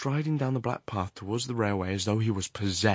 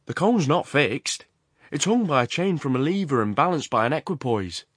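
loud, higher, animated explanation; Horrocks; 6 semitones higher, 5 dB louder than usual. Acted. The works owner explains how the cone hangs, animated. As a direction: explain the machinery with eager emphasis.

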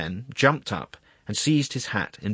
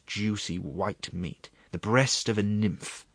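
coaxing, relishing secretary. Acted. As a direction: tempt them with each dish, savouring it. Secretary urges food on the attorney.

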